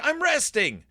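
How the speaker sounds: a hint of a put-out bunny waving them off; grumpy brush-off. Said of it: "And he's like".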